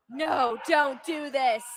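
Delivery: loud pleading cry; mock protest. Begging a friend not to read comments, loud mock plea. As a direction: beg them to stop.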